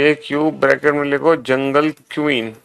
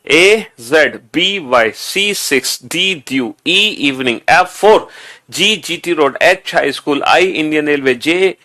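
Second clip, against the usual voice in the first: read-along recitation. Shown as a demonstration. Teacher restarts the read-along with students, rhythmic chant. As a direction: chant each pair for the class to follow. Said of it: "चलो दोबारा से".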